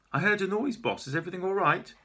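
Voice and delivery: put-on high, anxious young assistant; Belinda. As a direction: rush in worried.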